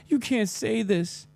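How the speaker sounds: high, slow whiny mockery; mocking whiny fan. Streamer mocking fans who cry online, high and whiny. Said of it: "They're like".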